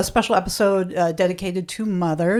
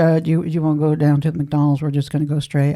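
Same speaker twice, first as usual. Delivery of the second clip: low imitated Southern car chatter; Southern accent; 5 semitones lower than usual. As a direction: mimic someone stuck in a Southern accent. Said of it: "kept a Southern accent going".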